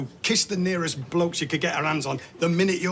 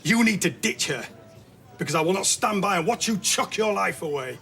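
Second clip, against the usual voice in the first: raised, higher voice of a father laying down the law; angry ultimatum; 4 semitones higher than usual. Acted. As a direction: push it out firmly, stressing the demand.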